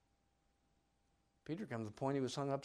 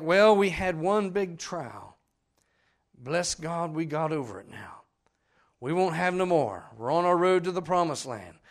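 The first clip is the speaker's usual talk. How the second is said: loud mock boasting; 3 semitones higher, 10 dB louder than usual. Preacher mimicking the smug Israelites, loud and proud. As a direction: crow about beating the trial. People boasting after trial.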